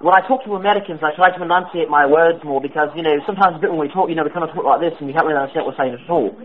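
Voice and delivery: a prank caller faking British; put-on British accent. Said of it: "sounded like someone putting on an accent".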